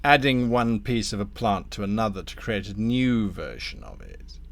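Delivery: deliberate, insinuating tempter; lightly voiced scheming Damnifer. Damnifer pitches a grafting scheme to Thorn, lightly voiced courteous schemer. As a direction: unveil the offer with relish. Game master plays Damnifer.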